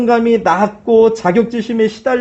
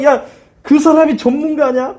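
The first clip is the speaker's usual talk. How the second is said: higher, sneering taunt of amateurs; mocking jeer; 5 semitones higher than usual. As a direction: jeer at them, pitched up. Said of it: "하면서 지금 막 조롱하고 있는 거예요". (높은 톤으로 비웃는 조롱)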